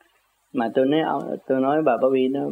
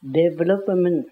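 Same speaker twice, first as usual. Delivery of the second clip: slow spelled meaning; much slower than usual. Shown as a demonstration. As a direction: draw out development slowly. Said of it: "David là sao?". (đọc chậm, rành rọt)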